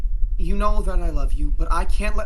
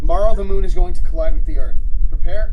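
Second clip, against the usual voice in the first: flat robotic radio voice; 6 dB louder than usual. Acted. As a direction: speak like a robot voice. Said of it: "a robotic voice comes from the radio".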